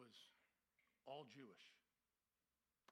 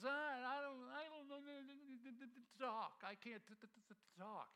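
imitating Moses stuttering, a bit higher; mock stammer; 6 semitones higher than usual. Moses pleading with God he can't speak, stammering. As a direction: stumble over the t of talk like Moses. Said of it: "He had his speech impediment".

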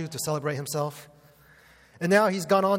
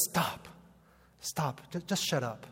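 curt Samuel; 6 dB quieter than usual. Retold or imitated. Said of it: "Samuel just says".

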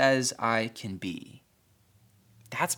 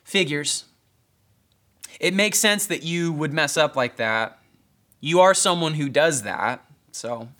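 condescending; 2 semitones higher than usual. Retold or imitated. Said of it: "with a condescending tone".

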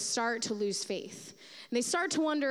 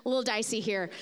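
startled whoa. Retold or imitated. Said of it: "I'm like".

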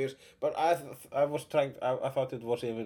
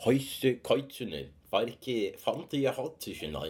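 mock Faroese gibberish, slightly subdued; Faroese accent; 3 semitones lower than usual. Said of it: "but Faroese is".

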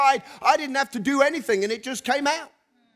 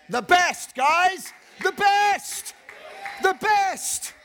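rising excitement; 8 semitones higher, much slower than usual. Real, not acted. Preacher rousing the congregation.

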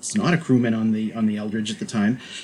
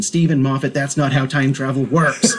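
mild mock yell at the TV; exasperated, half-hearted retold shout; retold scream; 3 semitones higher, 4 dB louder than usual. Fan retelling screaming at the television, mild mock yell. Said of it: "stood up and screamed at the television".

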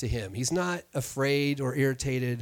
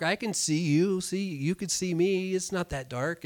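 put-on higher, gentle coaxing to a child; reassuring dad; 5 semitones higher than usual. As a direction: soothe a scared little girl. Father reassuring scared daughter.

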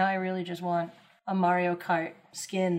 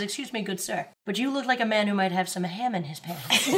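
posh dog. Retold or imitated. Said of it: "Every dog comes up to you and says".

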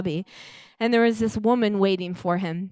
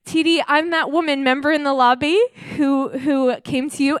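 higher, louder, eager; bursting with joy at seeing him; mock joyful woman; excited; 5 semitones higher, 5 dB louder than usual.

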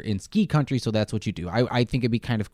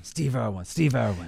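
put-on Australian accent; 5 dB quieter, slower than usual. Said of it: "now you gotta be Australian".

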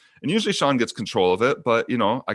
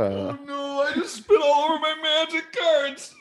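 real dismay. Real, not acted. Just spat on his cards.

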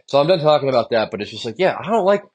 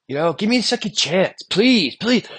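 lightly voiced, higher pleading please; mock begging; 7 semitones higher than usual. To his boss, a mild mock plea for a second chance. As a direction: beg a little harder on please. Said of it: "I was begging for my job".

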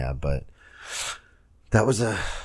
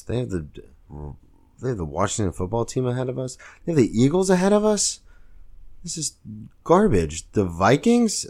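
higher and louder, building indignation; outraged fan rant; 6 semitones higher, 4 dB louder than usual. Real, not acted. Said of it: "a Bill Burr style where I rant".

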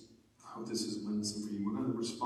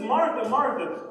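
higher, slow, loud loving call; intimate love; 9 semitones higher, 9 dB louder, slower than usual. Retold or imitated. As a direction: call the name with great affection, drawn out. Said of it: "It's an intimate love".

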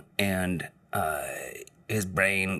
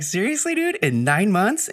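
high, loud incredulous "seriously"; mock shocked reply to a coworker; disbelieving; 12 semitones higher, 5 dB louder than usual. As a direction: act stunned and grossed out. Speaker's own disbelieving reply.

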